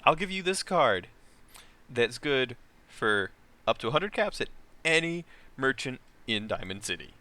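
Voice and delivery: slow, lightly voiced Boston accent; a hint of a Boston hustler. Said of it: "in his very Boston accent".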